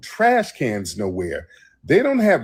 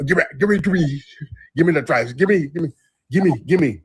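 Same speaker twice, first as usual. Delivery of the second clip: insistent cop; 5 semitones higher, faster than usual. Retold or imitated. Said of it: "I'm like".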